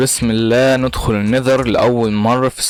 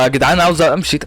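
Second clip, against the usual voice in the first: higher-pitched, urgent appeal; alarmed plea; 5 semitones higher than usual. Real, not acted. Gamer begging his audience to let him leave, alarmed plea. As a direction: plead to get away, voice rising. Pleading to escape approaching mobs.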